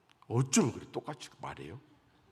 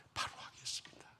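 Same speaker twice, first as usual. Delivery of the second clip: whispered vow; 16 dB quieter than usual. Retold or imitated. Deacon's whispered repentance prayer.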